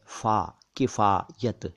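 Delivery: किफ़ायत broken up as "faa, kifaa-yat"; plain k and clear f in किफ़ायत; f sound. Shown as a demonstration. Teacher showing the dotted letter, किफ़ायत in pieces with f. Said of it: "लेकिन फ के नीचे है".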